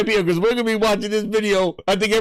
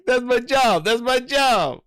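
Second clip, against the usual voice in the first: insisting; 7 semitones higher, slower than usual. Retold or imitated. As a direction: push it out like a guard defending his post. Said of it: "He's like".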